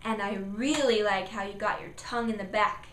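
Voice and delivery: encouraging praise; praising parent. Shown as a demonstration. Parent praising child's tongue, encouraging. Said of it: "praise number two".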